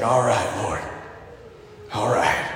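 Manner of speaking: low, subdued acceptance; quiet resignation. Retold or imitated. Soldier alone on the ridge answers the Lord, low and resolved. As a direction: answer God low and gently, accepting the task.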